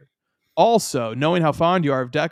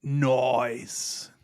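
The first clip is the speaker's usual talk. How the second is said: Nice said as "noice", broad Australian vowel; drawn-out Australian "noice" for Nice; Australian accent; 5 dB quieter than usual. Pretend. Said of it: "let my Australian accent cook".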